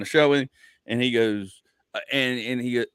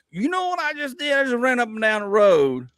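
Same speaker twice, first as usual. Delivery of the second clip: put-on scolding a picky kid with mounting heat; heated rant to a kid; 5 semitones higher than usual. Father ranting at his kid about hustling for money. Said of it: "I'm like".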